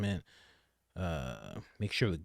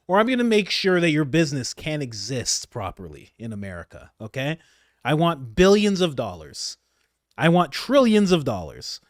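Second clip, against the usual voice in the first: imitating Trump; 5 semitones higher, 7 dB louder than usual. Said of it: "Trump is like".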